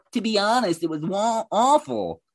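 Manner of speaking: high, put-on mocking voice; mocking imitation. Repeats comment in mocking voice.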